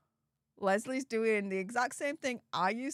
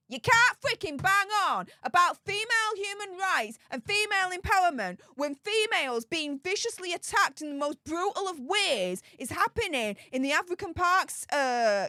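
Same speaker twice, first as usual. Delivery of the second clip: heated rant; 3 semitones higher than usual. Real, not acted. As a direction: hammer home the hypocrisy. Ranting about Meghan's hypocrisy.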